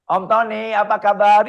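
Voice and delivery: put-on a small child proudly greeting an uncle; eager child greeting. Kind grüßt Onkel, vorgespielt.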